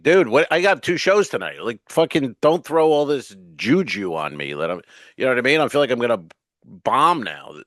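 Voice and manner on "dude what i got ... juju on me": exasperated outburst. Retold or imitated. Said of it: "And I'm like".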